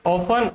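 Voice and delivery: first "often" as OFF-un, second as OFF-ten; silent T, then sounded. Shown as a demonstration. Teacher asks which one is correct, contrasting the T. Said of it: "दो possible pronunciation होते हैं".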